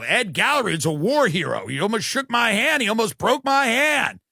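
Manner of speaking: mildly excited mock cabin announcement; cabin announcer. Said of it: "they make an announcement to the coach cabin".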